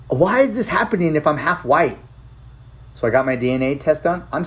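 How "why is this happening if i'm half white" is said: higher, retold bewilderment; puzzled protest, retold; bewildered question.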